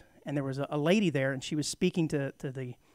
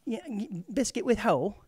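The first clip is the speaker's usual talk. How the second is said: mock English accent; 5 semitones higher than usual. Playing along with bagel in English.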